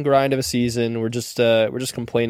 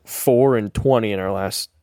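whispering. Acted. Moaning about losing streak.

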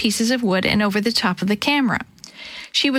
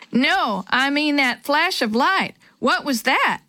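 excited; 5 semitones higher, slower than usual. Acted. Excited kid after running.

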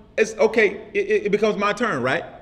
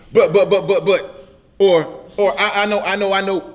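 pushy, choppy cut-ins, a bit louder; interrupting butts; 4 dB louder than usual. Retold or imitated. Preacher mimics a listener talking over him: pushy, choppy interruptions. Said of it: "this is the way they would interrupt me".

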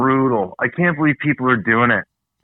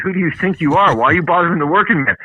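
retold angry rant; 4 semitones higher than usual. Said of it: "I said".

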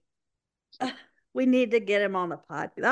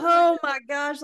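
laughing so hard it's near tears; crying laughing; 2 semitones higher than usual. Real, not acted. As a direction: gasp it out through laughter. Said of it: "I'm crying laughing".

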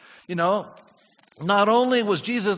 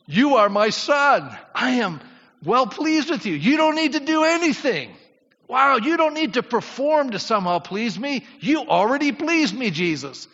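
higher and louder, fervent voice of the Father; the Father's voice; 7 semitones higher, 5 dB louder than usual. Acted. Pastor voicing the Father affirming Jesus, high and fervent. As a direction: proclaim it as God blessing his son. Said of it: "Jesus had heard just before".

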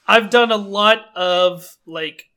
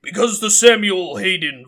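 Samuel Hayden. Shown as a demonstration. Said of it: "is actually just me doing this".

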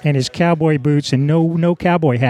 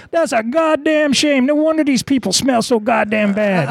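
imitated grumbler; 10 semitones higher than usual. Imitates bandmate's loud grumbling reply.

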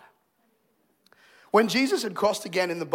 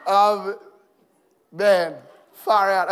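laughing, moved; 6 dB louder, much slower than usual. Real, not acted. Overcome looking at baby photo.

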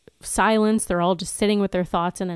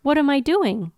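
higher, baffled questions; genuinely puzzled, a bit higher; confused Anya; 4 semitones higher than usual. Acted. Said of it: "have you be Willow".

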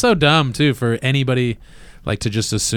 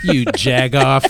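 put-on slow jab in a Chicago accent; mock Chicago insult, drawn out; Chicago guy; 4 dB louder, slower than usual. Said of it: "a guy from Chicago being like".

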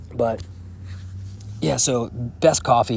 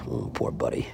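low, soft sympathy for an animal; tender, hushed and low; pitying; 13 semitones lower, 10 dB quieter than usual. Real, not acted. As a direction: console a sad horse, dropping the voice. Pitying a sad-looking horse.

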